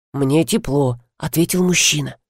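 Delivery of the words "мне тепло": low, lightly voiced man's reply; baritone man. A narrator's reading. Man answering the woman in bed that he's warm, as a baritone. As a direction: answer in a lower, baritone register. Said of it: "возразил баритон".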